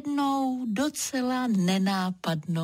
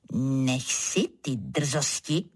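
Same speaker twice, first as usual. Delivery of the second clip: lower, slow stern reprimand; scolding turtle; 6 semitones lower, slower than usual. Acted. Turtle scolding the cloud, lower and slow. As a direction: put the cheeky cloud in its place. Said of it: "napomenula ho želva".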